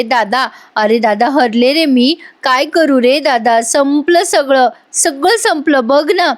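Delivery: slow, rising wail of a heroine hamming up her grief; mock weeping. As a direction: drag out the lament like a staged sob. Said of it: "रडता रडता".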